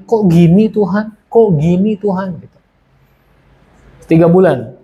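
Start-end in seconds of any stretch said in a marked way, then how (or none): 0.1-2.3 retold plaintive plea, higher and drawn out; complaining question. Praying alone each night, asking God why, in plaintive protest. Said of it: "cuma tanya".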